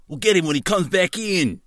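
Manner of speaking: high Australian cop voice; Australian accent. Acted. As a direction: say it as an Aussie cop. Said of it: "last guy says".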